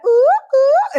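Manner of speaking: high, loud startled yelps; startled ooh. Retold or imitated. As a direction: yelp like the pendulum just yanked your hand. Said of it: "and I was like".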